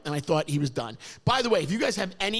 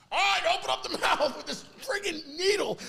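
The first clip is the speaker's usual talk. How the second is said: higher-pitched imitation of the dentist, with a laugh; imitating the dentist; 8 semitones higher than usual. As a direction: play the dentist coming in with the needle. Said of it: "he comes in like this".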